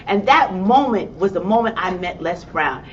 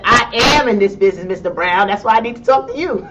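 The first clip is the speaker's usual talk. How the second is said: bold, louder sass with a bit of attitude; confident comeback; 5 dB louder than usual. Retold or imitated. To Les Brown, claiming her place in the business, confidently. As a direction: hands on hip, set him straight with confidence. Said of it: "I said it like I was all the confident person in the world".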